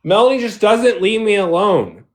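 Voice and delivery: high, heated, swearing tirade; angry rant. Real, not acted. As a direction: pour out years of grievance at her. Furious rant at Melanie.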